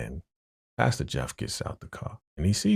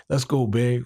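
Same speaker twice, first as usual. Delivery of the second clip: coaxing Geneva voice; 7 semitones higher, 4 dB louder than usual. Retold or imitated. Geneva pulling him away.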